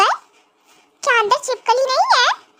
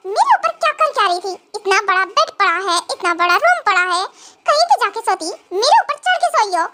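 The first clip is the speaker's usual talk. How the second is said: lightly lowered grumpy husband voice; scolding husband; 5 semitones lower than usual. Acted. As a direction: chide her like an annoyed husband. Husband scolds wife who slept on him. (चिढ़ा हुआ पति, हल्की नीची आवाज़)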